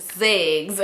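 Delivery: "Sex" said with a buzzed z and hard g, like "zegs"; censored pronunciation. Shown as a demonstration. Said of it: "How they be saying it?".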